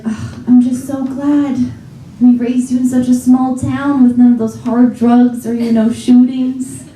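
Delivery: lightly voiced smug mom; mom impression.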